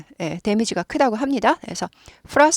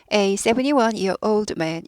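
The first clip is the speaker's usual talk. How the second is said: slow careful reading; much slower than usual. Shown as a demonstration. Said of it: "이렇게 많이 하고요".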